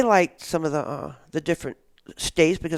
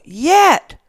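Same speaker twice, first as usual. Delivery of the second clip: very high, loud mock shout; imitated crowd yell; 10 semitones higher, 10 dB louder than usual. Kids all finish the host's sentence, imitated yell. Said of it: "they all yell".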